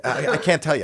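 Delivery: high, loud imitated bewilderment; hammed-up exasperation, pitched well up; mock distress. Comic plays Lou too upset to explain, mock distressed.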